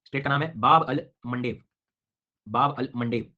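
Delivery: slow, deliberate "बाब अल मंडेव" with each word separated; careful spelling-out pronunciation. Shown as a demonstration. Teacher dictating "बाब अल मंडेव" slowly and clearly to his class. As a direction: spell out "बाब अल मंडेव" syllable by syllable for note-taking. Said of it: "मंडेव जैसा लिखना होता है".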